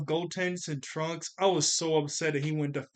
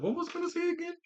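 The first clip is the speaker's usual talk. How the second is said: mock confused; 14 semitones higher, 4 dB quieter, faster than usual. Retelling his own forgetful moment.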